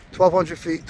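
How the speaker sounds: breathless, winded from the climb; panting between words; out of breath. Real, not acted. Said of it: "I'm so out of breath".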